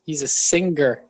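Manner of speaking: "singer" as sing-ger, with an audible g; hard G in singer. Shown as a demonstration. Repeating the tease on purpose, hard G in "singer". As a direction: deliberately sound a hard g in "singer". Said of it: "I said it like that on purpose".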